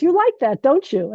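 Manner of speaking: a high teasing mock question; imitating the teacher. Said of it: "He goes".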